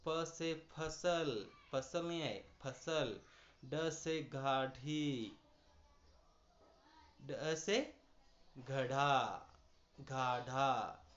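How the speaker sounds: drawn-out teaching read; slow nukta readings. Shown as a demonstration. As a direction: read each word slowly to show the sound. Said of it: "जहर के नीचे नुक्ता आ गया है". (धीरे धीरे पढ़कर दिखाना)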